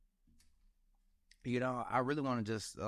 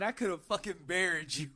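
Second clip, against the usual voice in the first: laughing boast; 4 semitones higher than usual. Retold or imitated. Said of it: "I said".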